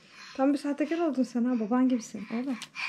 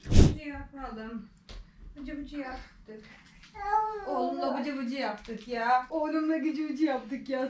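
tender, unhurried bath-time chat; slower than usual. Real, not acted. Mother cooing to baby after bath.

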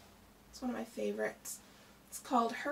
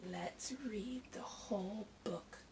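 gentle hushed reply; 3 semitones lower, 8 dB quieter than usual. Acted. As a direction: hush it kindly, like a secret treat. Tortoise answers gently.

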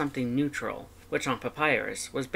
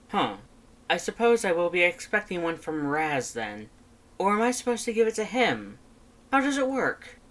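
Papyrus voice; 6 semitones higher than usual. Acted. Papyrus asking his brother about date gifts, high and eager. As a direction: puzzle it out, pitch climbing higher.

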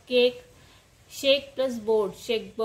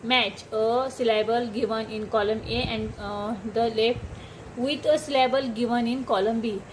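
reading the task aloud word by word, very slowly; slow instruction reading; much slower than usual. Shown as a demonstration. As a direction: dictate the instruction slowly to the class. Reads exercise instruction slowly.

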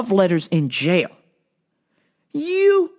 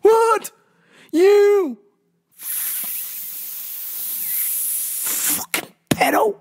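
much higher, louder shocked cry; shocked outburst; 11 semitones higher, 3 dB louder, much slower than usual. Real, not acted. Host reacting to viral clip, shocked and loud. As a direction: yelp in disbelief, then spit the insult. Outrage at Dalai Lama clip.

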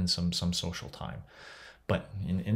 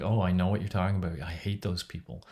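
quick, lightly acted commiserating tone; a hint of knowing disgust; knowing sympathetic agreement. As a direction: mildly imitate a friend who shares your annoyance. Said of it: "but that's said in that voice".

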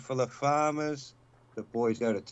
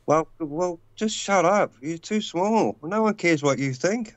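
lightly voiced scornful president, raised; scornful brush-off; 4 semitones higher than usual. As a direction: tell him off, mock-superior. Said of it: "I'd be like".

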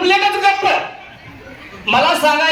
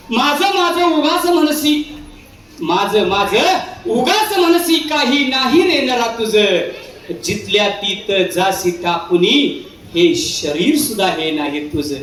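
moral verse recitation; slower than usual. Acted. Warning the audience that nothing is theirs, slow verse recitation. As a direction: declaim it slowly, phrase by phrase.

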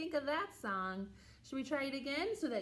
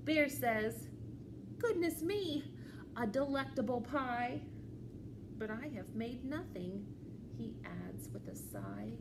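lively, measured storytime reading; children's story read-aloud; 2 semitones higher, slower than usual. A narrator's reading. Librarian reads a picture book to children, animated storytelling. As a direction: read to little ones, pausing before the reply.

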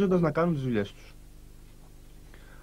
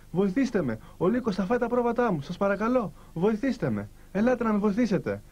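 lightly acted higher-pitched plea; mock cry for help; 5 semitones higher than usual. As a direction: call out for help without really shouting. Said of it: "άρχισε πάλι να φωνάζει".

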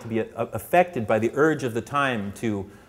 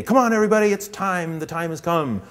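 mock rousing call to the crowd, pitched up; rally call; 5 semitones higher than usual. Rallying the audience to rush out the doors, mock pep talk. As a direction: hype everyone up like a cheerleader. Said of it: "I'm not gonna say to you today".

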